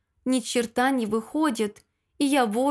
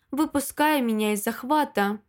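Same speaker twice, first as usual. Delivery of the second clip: ordinary delivery, nothing marked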